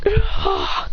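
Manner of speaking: high yelp of being launched; acted hit reaction; short high "ah" of pain; mock cry of impact. Character sent flying.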